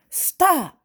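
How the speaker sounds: high, loud barked stop; dad's sharp shout. Acted. Dad shouting at the sneezing child to stop.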